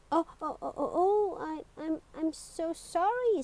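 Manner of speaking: flustered, stumbling apology; nervous stammer. Acted. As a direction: stammer out a panicked sorry. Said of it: "stammered Mister Good nervously".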